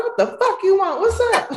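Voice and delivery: high, laughing irritation; irritated snap. Retold or imitated. Woman snapping at the ex who texts her again, high and irritated. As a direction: bite back at him with attitude. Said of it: "I was like".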